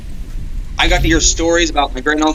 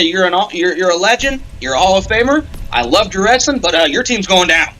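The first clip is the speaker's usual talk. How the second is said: respectful trash talk; 5 semitones higher than usual. Pretend. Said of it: "shake his hand and say".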